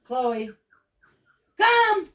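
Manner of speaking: high, loud shouted call. Shown as a demonstration. Trainer showing a loud recall to her dog, high shout. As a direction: call the dog sharply across the room. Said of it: "use different voices".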